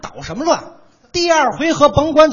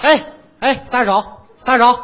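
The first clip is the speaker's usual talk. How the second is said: loud, indignant yelling to let go; mock yell; 5 dB louder than usual. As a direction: holler at him to put you down. Being lifted, yelling to let go.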